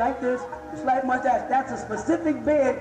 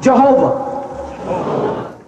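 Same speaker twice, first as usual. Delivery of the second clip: drawn-out, loud congregational prompt; loud call-out; 8 dB louder, much slower than usual. Shown as a demonstration. Speaker prompting the whole audience to repeat a name, loud call-out. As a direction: lead the crowd in calling it out.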